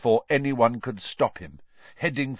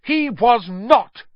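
sudden retort; 13 semitones higher, 7 dB louder, slower than usual. A narrator's reading. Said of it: "said Harry suddenly".

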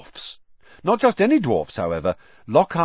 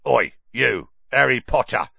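shouting; 3 semitones higher, 4 dB louder than usual. A narrator's reading. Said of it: "shouted a particularly grim-looking dwarf".

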